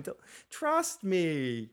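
drawn-out pleading trust me; slow mock plea. Tywin begs his son to trust him, drawn out. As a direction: stretch out the plea slowly.

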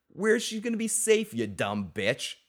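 incredulous mock contempt; mock Hound scorn. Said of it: "the greatest line".

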